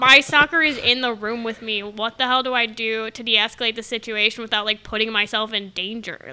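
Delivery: low, subdued voicing of inner thoughts; Dedra. Podcaster voicing a character's thoughts beside her stalker, low and subdued. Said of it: "like, Dedra's body language in that moment".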